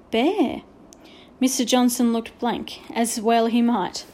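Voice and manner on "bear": whispered. A narrator's reading. Patrick answers under pressure.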